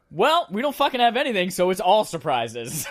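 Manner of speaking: loud, high, hammed-up company spokesman; Microsoft. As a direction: announce it big, stretching the last words. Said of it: "And Microsoft is like".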